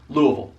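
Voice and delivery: "Louisville" mumbled into LOO-uh-vul, repeated as a drill; three syllables as one. Shown as a demonstration. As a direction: squash "Louisville" into one run-together word. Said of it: "Three syllables, one word".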